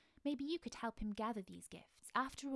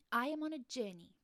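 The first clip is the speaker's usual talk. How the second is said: proudly; 3 semitones higher, 5 dB louder than usual. Acted. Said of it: "said Small Mouse proudly".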